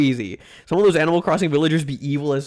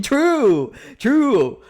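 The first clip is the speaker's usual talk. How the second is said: squeaky mock agreement; 8 semitones higher, 4 dB louder than usual.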